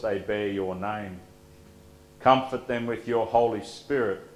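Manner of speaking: steady liturgical prayer voice. Acted. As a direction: pray it calmly to the congregation. Pastor leads prayers of the people.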